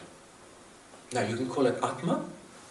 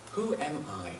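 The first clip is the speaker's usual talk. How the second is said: softly wondering, a little softer; quiet self-questioning; 3 semitones higher, 5 dB quieter than usual. Shown as a demonstration. Asking oneself during the day, quietly. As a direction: put the question to yourself quietly. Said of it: "Ask yourself quietly".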